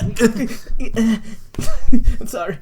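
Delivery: mock-sheepish, through laughter; awkward apology. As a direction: giggle out a bumbling villain's apology. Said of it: "He's just really awkward about it as well".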